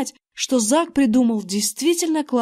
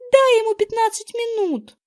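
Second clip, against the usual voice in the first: put-on much higher insistent girl's voice; insisting girl; 11 semitones higher than usual. A narrator's reading. Girl insisting the boy wait, high insistent voice. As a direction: keep pressing him. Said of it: "продолжала настаивать Эрин".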